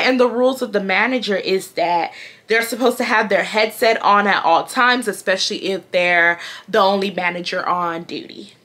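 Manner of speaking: put-on lightly sassy comeback in the manager's accent; a touch of mocking sass; sassy mimicry. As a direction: throw the manager's own way of talking back. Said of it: "with that type of sass, with her accent".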